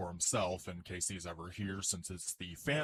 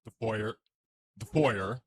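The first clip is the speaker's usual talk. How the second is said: realtor; 3 dB louder than usual. Acted. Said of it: "Iron Man doing his best realtor impression".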